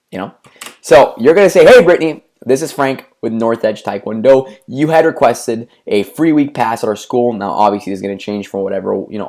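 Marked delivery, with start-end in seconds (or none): 1.7-7.3 emphatic friendly. Shown as a demonstration. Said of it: "I want you to be really emphatic".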